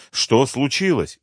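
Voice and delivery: grandma suddenly scared for her; frightened question. Acted. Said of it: "испуганно спросила бабушка".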